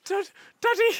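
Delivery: high mocking coo; teasing high voice. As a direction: tease him in a high voice.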